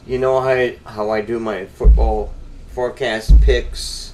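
talking while thumping the table; desk thump. Real, not acted. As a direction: knocks on the desk mid-sentence. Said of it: "Quit hitting the table 'cause it makes a noise on the mic".

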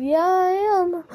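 high, insistent mock reply; imitated comeback. Friend insisting to the others, imitated high comeback. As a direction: imitate him insisting, pitch well up. Acted quarrel over being black.

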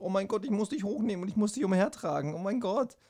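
put-on overwhelmed by the baby's crying; panicked dad. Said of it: "bin ich gerade so voll so".

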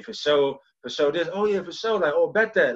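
demonstrating a Cleveland twang, "sure" as "sho"; casual slang in a Cleveland twang. Shown as a demonstration. Showing how he talked at home, in Cleveland twang. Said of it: "just, just twang like that".

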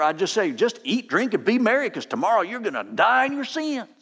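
imitated Southern country preacher accent; J Vernon McGee. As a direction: preach it like an old-time Southern pastor. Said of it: "he's got that wonderful Southern accent".

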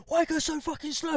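high, strained mock complaint; angry driver. Retelling the other driver at traffic lights, mock angry. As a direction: imitate an irate motorist. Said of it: "and he was like".

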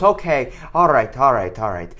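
mock-Irish, dropping in pitch as it repeats; Irish accent. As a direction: imitate an Irishman letting it go. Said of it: "making fun of his accent".

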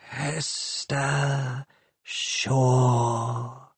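soft, hissing machine voice stroking her name; caressing hiss. A narrator's reading. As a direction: caress the name like a gas leak. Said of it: "caressing her name with its gas-leak hiss".

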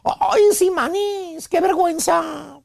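embarrassed woman. Retold or imitated. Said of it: "hasta roja se pone de la cara y te dice".

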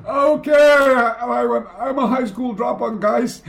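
high, laughing admission; laughing confession. Retold or imitated. Telling the scholars the truth, laughing and high.

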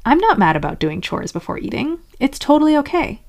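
insistent denial rising to a high reassurance; forced denial. Acted. Squashing down anger about chores, forced denial. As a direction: deny it, then lift into mock reassurance. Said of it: "Squashing it down would be".

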